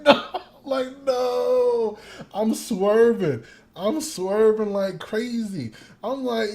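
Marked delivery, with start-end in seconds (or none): 0.0-2.0 loud refusal. Retold or imitated. Retold refusal, laughing.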